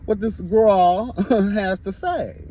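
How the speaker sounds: quick, keen mock reply to a friend; a light, hurried imitation of herself; eager retold reply. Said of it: "And I was like".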